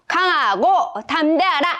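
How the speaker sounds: bold soldier-style reading; firm, spirited soldier voice; brave like a soldier. Shown as a demonstration. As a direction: read it like a brave little soldier. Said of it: "씩씩하게 군인처럼 읽을 거예요".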